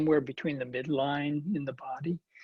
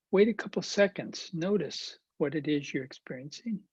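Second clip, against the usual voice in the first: unhurried meditation guidance with long pauses; guided meditation. Acted. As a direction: gently guide attention, leaving space between phrases. Leads guided meditation practice.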